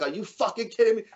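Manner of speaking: high-pitched imitation of an outraged mother; mildly mock-outraged mom; mom flipping out. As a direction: imitate a parent starting to flip. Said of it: "Starts flipping".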